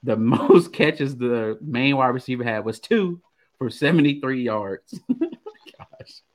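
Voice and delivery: chuckling through the stat; trying not to laugh. Real, not acted. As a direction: giggle breaking into the words. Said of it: "I'm trying not to laugh at this stats".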